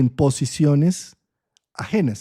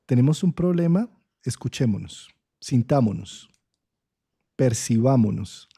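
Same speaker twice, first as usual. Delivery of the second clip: tender plea; 3 semitones lower than usual. Acted. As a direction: coax like a hurt sensitive soul. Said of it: "Un Mercurio en Piscis está diciendo".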